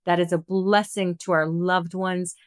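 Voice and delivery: earnest group prayer, unhurried. Acted. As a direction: call on the guides and angels like a blessing. Closing prayer to spirit guides.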